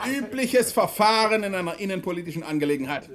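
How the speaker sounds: amused, laughing reply; speaking through laughter. Acted. Prime minister teasing the interior minister, laughing. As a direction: explain it away while chuckling. Premier justifies order, laughing.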